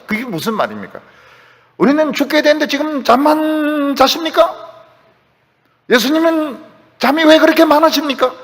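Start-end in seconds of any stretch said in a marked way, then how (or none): 1.8-8.3 high-pitched, indignant questioning; protesting, pitched well above usual; acted accusing complaint. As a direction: confront a sleeper with mock reproach. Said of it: "막 예수님을 지금 따지고 있습니다".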